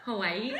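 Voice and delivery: Hawaii with a stressed final I; playful demo of Hawaii, emphasis on the closing vowel; stress on last I. Shown as a demonstration. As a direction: repeat Hawaii, leaning on its last "i". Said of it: "You put the emphasis on the".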